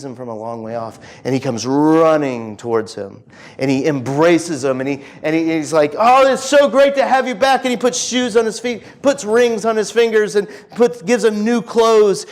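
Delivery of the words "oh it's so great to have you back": higher-pitched delighted greeting, acted out in retelling; overjoyed welcome. Father greeting his returning son, overjoyed. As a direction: play the father thrilled at a return.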